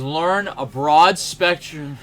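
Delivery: "Learn a broad spectrum" slow and loud in a Sicilian accent. Shown as a demonstration. Mentor's words redone in a Sicilian accent. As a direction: drag "broad" out, Sicilian style. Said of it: "I can't do a Sicilian accent".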